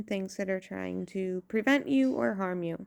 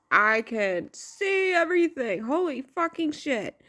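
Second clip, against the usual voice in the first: higher-pitched mock amazement; mock awe; 4 semitones higher than usual. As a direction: act out a mind-blown revelation. Acting out someone having an awakening.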